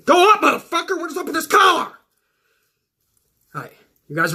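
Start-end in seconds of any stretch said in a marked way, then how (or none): 0.1-1.9 annoyed yell at his shirt; irritated outburst. Real, not acted. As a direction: fight with the collar. Fighting his shirt collar.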